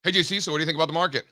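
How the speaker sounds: quick, imitated no-hello opener; straight to business. Tom greets JC by jumping to the market, hurried. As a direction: rush right into the question, skipping pleasantries. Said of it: "just right into the market".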